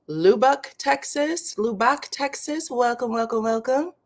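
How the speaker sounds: Texas sung up high, rising; delighted to spot a far-off city, pitch swooping up; excited greeting. Real, not acted.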